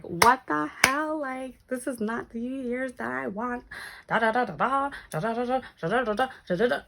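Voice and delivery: high, exasperated rant; ranting to her sister about New Year. Retold or imitated. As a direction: vent it all out in a rush.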